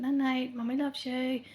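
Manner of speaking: gentle loving sing-song goodnight; tender goodnight. Retold or imitated. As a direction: say goodnight like tucking in a child. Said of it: "gave her a wee kiss and".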